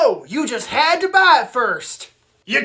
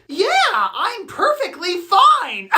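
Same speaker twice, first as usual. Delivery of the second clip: higher, slow, sickly insistence; sounding sick; 5 semitones higher, slower than usual. Acted. Sick boy assures classmate he's fine, sickly. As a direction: insist you're fine while audibly ill. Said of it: "You sound really sick".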